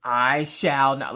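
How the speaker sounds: slow, loud grand refusal; old-fashioned melodrama. Retold or imitated. Mother refusing to stop, old-fashioned melodrama. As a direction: refuse like an antique stage dame. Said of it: "talking like you're from the nineteen hundreds".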